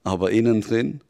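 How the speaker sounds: the devil accusing, firm and insistent; a lightly voiced devil pressing the truth on you; intense devil. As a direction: drive each image home like a verdict.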